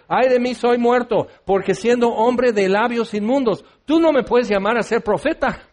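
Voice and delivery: half-hearted despairing protest; anguished Isaiah. Retold or imitated. Preacher voicing Isaiah protesting his unclean lips, mock despair. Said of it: "Isaías dice".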